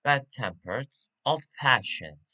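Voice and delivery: "bad-tempered" and "old-fashioned" leaning on TEMPERED and FASHIONED; "bad-tempered, old-fashioned" with the weight on the second word; stress on second part. Shown as a demonstration. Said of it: "stress is on the second part".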